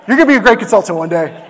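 laughing proudly. Retold or imitated. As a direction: say it while laughing with pride. Telling his toddler son proudly.

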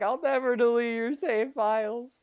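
very high, sobbing voice; hammed-up tearful farewell; mock crying. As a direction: blubber it through fake tears. Amethyst breaks down crying.

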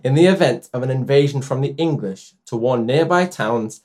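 suppressed laughter. Real, not acted. Reading while fighting laughter.

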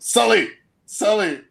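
high, short mock yell of a name; retold yell. Friend testing if the star looks, imitated yell. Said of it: "Newbie just yells out".

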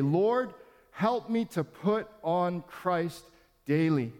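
slow prayerful "Lord, help me to put on Christ daily". Pastor leading the church in a daily prayer, slow and prayerful. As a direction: pray it slowly, leaning on "help". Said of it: "Repeat this prayer".

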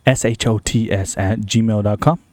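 slow, spelled-out promo read; podcast promo. Shown as a demonstration. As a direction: plug the show, spelling it out. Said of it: "It's a promo".

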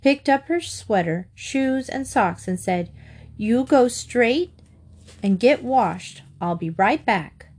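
put-on lively children's story reading; expressive read-aloud storyteller; story narration. A narrator's reading.

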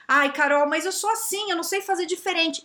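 high-pitched imitation of helpless protest; mock whiny excuse. Coach imitating a follower making excuses, mock whining. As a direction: plead helplessly, in mimicry, that you can't change.

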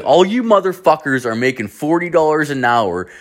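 high, disbelieving mock rant; high, amazed mock outburst; incredulous rant. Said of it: "I'm like".

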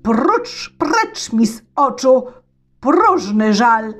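tsar threatening. Acted. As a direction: threaten the boy with the stake. (car grozi Wani)

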